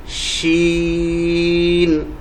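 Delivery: شین held long on the vowel; drawn-out letter name. Shown as a demonstration. Teacher modelling shin for the class, slow stretch. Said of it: "مد کے ساتھ پڑھیں گے".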